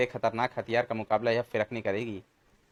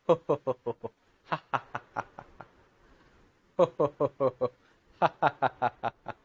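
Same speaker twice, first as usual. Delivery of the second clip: hearty guffaws. Acted. Boy and monkey guffaw as the neighbour slips. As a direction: laugh your head off at the fall. Two laugh at man slipping.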